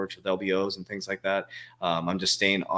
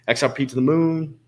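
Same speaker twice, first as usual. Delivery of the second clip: chanted, hyped-up catchphrase; rally the fans; hype cheer; 6 semitones higher, 5 dB louder than usual. Real, not acted.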